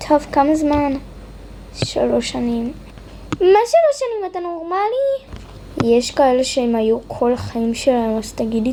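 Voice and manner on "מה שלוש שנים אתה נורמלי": much higher, indignant what; a hammed-up gasp of outrage at the sentence; outraged disbelief. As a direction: throw it back in shock. Outrage at three-year sentence.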